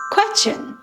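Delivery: "question" jumps high in pitch; rising question tune. Shown as a demonstration. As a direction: show the lift of a question on "question". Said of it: "transforms the statement into a".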